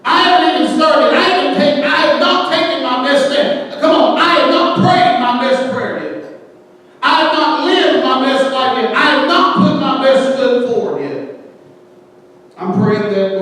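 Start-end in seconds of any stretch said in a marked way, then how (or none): 0.0-11.4 bold declaration. Retold or imitated. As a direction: declare it with fire. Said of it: "look back and say".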